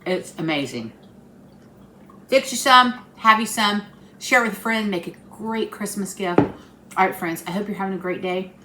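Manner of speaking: talking through a mouthful; words round a bite of cake; mouth full. Real, not acted. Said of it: "Talking with my mouth full".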